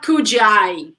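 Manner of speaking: "could" with an added "ee", like "coodjee I"; "could I" said as "coodjee-eye"; wrong pronunciation. Shown as a demonstration. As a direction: add a "jee" sound after "could". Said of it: "It's not".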